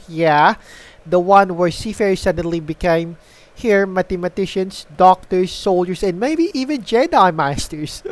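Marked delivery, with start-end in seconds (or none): 6.0-8.0 laughing. Real, not acted. Laugh heard on line.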